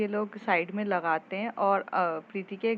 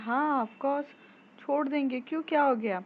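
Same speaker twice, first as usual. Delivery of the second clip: higher, lightly voiced mom, a bit puzzled; mother's reply; 6 semitones higher than usual. A narrator's reading. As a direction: answer like a caring mother, pitched up. Mother answers daughter. (ऊँची आवाज़ में माँ का हैरान जवाब)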